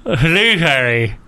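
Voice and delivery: slow, garbled through a mouthguard; wearing a mouthguard. Real, not acted. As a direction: talk around a gum shield. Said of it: "He's got this gum shield in his mouth".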